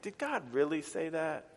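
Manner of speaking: lightly acted sly questioning; a touch of innocent-sounding insinuation; sneaky. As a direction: plant doubt quietly, as a tempter would. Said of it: "it's just sneaky".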